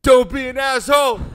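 big dramatic stage shout; theatrical monologue voice. Pretend. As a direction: declaim it like a grand tragedian. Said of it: "read this in your best monologue voice".

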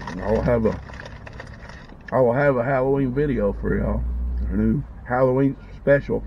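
chewing while talking; mouth full. Real, not acted. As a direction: talk through a mouthful. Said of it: "I'm talking with my mouth full".

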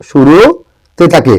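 1 slow emphasis. Shown as a demonstration. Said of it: "teacher stressing the answer".

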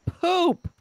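high, loud mild curse; sudden high-pitched yelp of annoyance; frustrated exclamation. Real, not acted. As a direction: blurt it out in frustration. Frustrated at building the wrong piece.

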